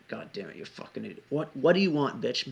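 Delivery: muttered self-reproach rising to a sharp demand; irritated, swelling outburst; retold anger. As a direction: act out exasperated anger. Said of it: "that anger is more directed at myself".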